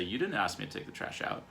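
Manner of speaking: understated defensive protest. Acted. Husband claims wife never asked about trash, defensive. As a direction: deny it with mild indignation. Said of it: "just get defensive and say".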